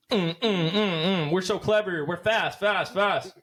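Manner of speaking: high, chirpy parody of a fast, clever show; mock hyped podcaster. Host mocking overly clever podcasts in a high parody voice. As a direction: send up a slick, rapid-fire podcast voice. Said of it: "they're not all gonna be like".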